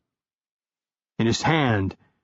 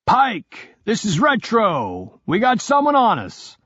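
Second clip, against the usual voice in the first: urgent radio call, higher; higher teammate voice; 9 semitones higher, slower than usual. Acted. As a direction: warn the team in a raised voice. Teammate warning over radio.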